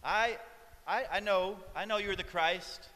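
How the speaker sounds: quick, keen student rattling off answers; eager student Martha. Retold or imitated. Martha to Jesus, an eager student reciting. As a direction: show off the right answers like a know-it-all pupil. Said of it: "you can hear her saying".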